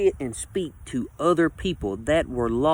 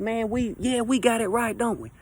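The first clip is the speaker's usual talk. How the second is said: smug agreement; 8 semitones higher than usual. Retold or imitated. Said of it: "it's like".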